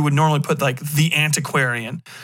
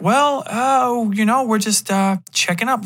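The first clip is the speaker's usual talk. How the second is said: tag; 8 semitones higher than usual. Acted. Visitors awkwardly explain their visit.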